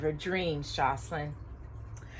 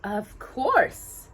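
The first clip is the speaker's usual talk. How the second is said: coolly; 3 semitones higher than usual. Acted. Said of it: "her mother replied coolly".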